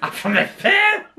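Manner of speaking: high, slow, creaky Gollum-like whine through laughter. Pretend. Teasing her friend in a high Gollum-like voice. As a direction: play a wheedling creature.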